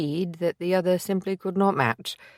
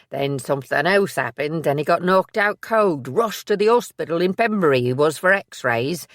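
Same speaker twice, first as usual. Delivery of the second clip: a louder, rougher working-class voice, out of breath; he has run all the way to find her; Billy the loyal assistant; 5 dB louder than usual. Acted. Billy to Maisie after running, panting relief.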